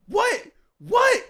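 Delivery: high, loud mock yell; imitated yelling. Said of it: "yelling and".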